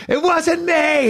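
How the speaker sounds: high, slow falsetto denial; mock innocent. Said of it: "Just walked away".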